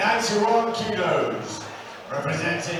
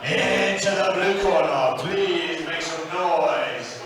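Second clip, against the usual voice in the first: ring announcer. Real, not acted. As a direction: announce the fighter, stretching out the name. Ring announcer introduces fighter.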